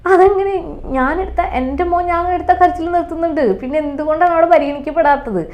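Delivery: high, loud, shocked protest; indignant disbelief. Retold or imitated. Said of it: "അപ്പം എനിക്ക്".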